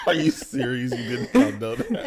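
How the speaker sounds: high, loud, laughing in disbelief. Real, not acted. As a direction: ask it through real laughter. Disbelief that friend didn't know.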